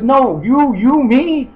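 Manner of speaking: high, loud mock back-and-forth; exasperated confusion. Acted back-and-forth confusion on phone.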